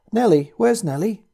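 put-on high, loud child's cry; screamed. Little girl crying out for her dog, screaming. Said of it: "the little girl screamed".

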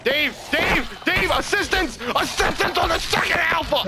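loud calls for help; yelling across the room. Real, not acted. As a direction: shout for your teammate. Calling teammate for help.

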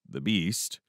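ordinary delivery

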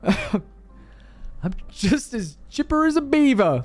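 high, stretched-out mock Canadian accent; bad Canadian accent. Resident telling officer she is fine, hammed-up Canadian accent. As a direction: ham up a terrible Canadian voice. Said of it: "I can't do a Canadian accent".

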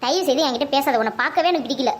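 low, controlled anger; cold rejection. Acted. Mother refusing to talk to her son, coldly angry.

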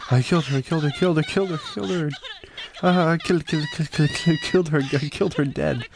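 a mild manic chant of a killer gloating; psycho killer. Acted. Player voicing a gloating killer, mild manic sing-song. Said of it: "Fucking psycho".

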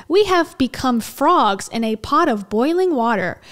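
emphatic, carefully spaced mock-guru read; over-enunciated reading. Reading out his warning about the sky, over-enunciated. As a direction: swoop onto each key word. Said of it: "tries to enunciate all of the words".

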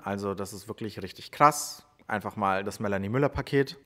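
ordinary delivery

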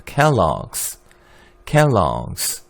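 켈로그스 said kelɔgs, stress on the first syllable; 켈로그스 with 오 leaning toward 어, one short beat; American Kellogg's. Shown as a demonstration. 수업에서 학생들에게 켈로그스 발음 시범. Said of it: "뒤에 오가 약간 어처럼 발음돼요".

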